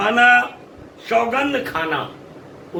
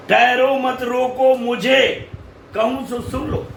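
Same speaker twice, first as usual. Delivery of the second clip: addressing the assembly; 5 semitones higher than usual. Acted. Kaikeyi stops the whole assembly to be heard, high declamatory address. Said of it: "सारी सभा को संबोधित करती हुई".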